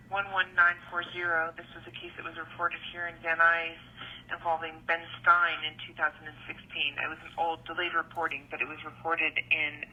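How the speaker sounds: recorded phone message; leaving a voicemail. Real, not acted. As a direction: voicemail over a phone line. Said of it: "here's a phone call I received".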